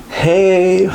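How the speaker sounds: high, drawn-out mock "Hey"; sing-song imitation of an over-eager texter; mock flirty text. Mocking a guy's flirty text, high sing-song.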